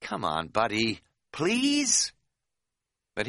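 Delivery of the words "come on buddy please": whiny wheedling plea with please pitched high; a pleading whine to the guard; whinily. Retold or imitated. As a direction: whine it like a begging kid. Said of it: "And then whinily".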